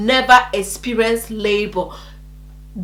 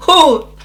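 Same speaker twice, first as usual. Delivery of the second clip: short, raised "oh" of surprise; small mock "oh"; 4 semitones higher, 5 dB louder than usual. Shown as a demonstration. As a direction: demonstrate a too-mild cry. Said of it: "I did not just do".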